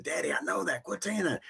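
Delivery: put-on high, whiny child's voice; annoyed kid voice. Kids brushing off dad's "who loves you", high whiny child voice. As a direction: play the kid rolling their eyes at dad.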